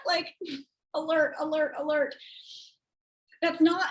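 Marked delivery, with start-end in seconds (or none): 1.0-2.2 raised, evenly repeated alert; imitated alarm. Coach flagging cringy texts, mimicking an alarm. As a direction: mimic a warning system, each word separate.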